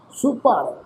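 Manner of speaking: ਸੁਪਰ with a small break between ਸੁ and ਪਰ; slight pause after su. Shown as a demonstration. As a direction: say short ਸੁ, pause briefly, then ਪਰ. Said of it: "ਫਿਰ ਪੋਜ਼ ਦੇ ਕੇ ਫਿਰ ਪਰ".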